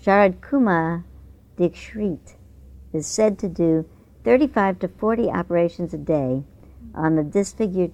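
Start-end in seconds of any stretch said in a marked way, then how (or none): 0.0-2.3 Sharad Kumar Dikshit said slowly, syllable by syllable; careful name. Shown as a demonstration. Reading out the Indian surgeon's name, careful pronunciation. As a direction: spell out Sharad Kumar Dikshit as tick-shit. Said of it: "a hard name to pronounce".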